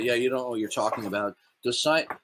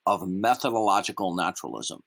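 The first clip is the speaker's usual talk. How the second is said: over enunciating; 3 semitones lower than usual. Shown as a demonstration. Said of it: "We're gonna go through this slowly".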